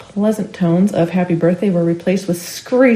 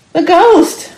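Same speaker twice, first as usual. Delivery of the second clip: shouting; 11 semitones higher, 6 dB louder than usual. A narrator's reading. Crowd member cries out in alarm.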